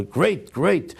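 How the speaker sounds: a mock holler of delight at the taste; half-hearted retold shout of approval; mild mock holler. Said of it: "And you holler".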